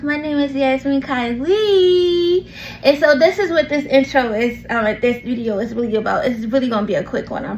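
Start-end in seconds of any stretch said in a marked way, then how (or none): 0.0-2.5 slow, stretched-out name; drawn-out introduction. Real, not acted. Host reintroducing herself to listeners, drawn out. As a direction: draw the last name out long.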